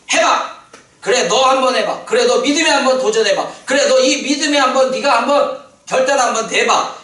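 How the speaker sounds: loud, high, rousing encouragement; urging shout. Retold or imitated. Preacher voicing God daring the believer to try, rousing shout.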